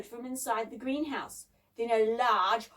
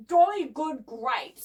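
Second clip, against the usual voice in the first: slow, louder, savouring praise; appreciative; 7 dB louder, slower than usual. A narrator's reading. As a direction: say it with drawn-out, hearty appreciation. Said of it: "said Debbie appreciatively".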